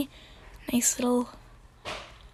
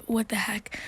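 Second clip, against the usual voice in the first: whispering; 5 dB quieter than usual. Real, not acted. Muttered aside about avatar.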